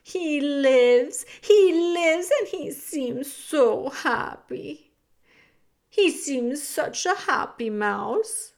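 high, loud joyful cry; overjoyed disbelief. Acted. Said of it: "says Antoinette".

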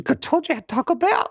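laughing it out high and sheepish; half-laughing confession to a friend. Retold or imitated. Telling friend after farting.

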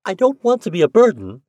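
put-on eager young widow pleading. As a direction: press on eagerly, a touch anxious. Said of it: "she went on eagerly".

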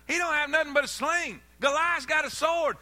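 building storyteller energy; rising excitement. Acted. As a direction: climb toward a shout. Preacher building David story.

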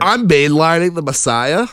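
a goofy put-on voice announcing the line; mock voice. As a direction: ham up the punchline in a silly voice. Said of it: "in that voice".

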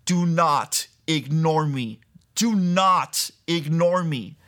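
slow, insistent retold command; mild mock yell. A divine voice demanding attention, mild slow mock yell. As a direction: press each word out slowly. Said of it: "this voice scream at me".

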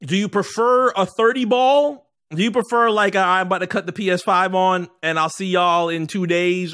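loud animated question; excited. Real, not acted. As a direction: push it up with energy.

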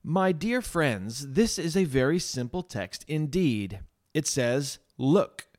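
slow, folksy pulpit address, lightly acted; simple lay preacher. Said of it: "I remember how he said".

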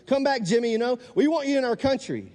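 high-pitched mock pleading voice; imitating North Korean fans. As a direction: plead in a put-on, high fan voice. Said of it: "I don't know how they talk like that".

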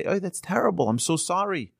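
acted-out sympathetic reaction; imitated sympathy. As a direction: sound like someone reacting with instant sympathy. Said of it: "we naturally sympathize".

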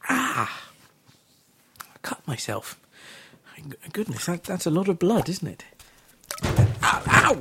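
high camp voice, bumbling and panicky; hammed-up comic Doctor. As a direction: play a flustered camp Doctor falling apart. Acted comic Doctor regeneration sketch.

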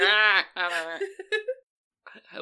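loud, rising camel groan; grumbling camel voice. Acted.

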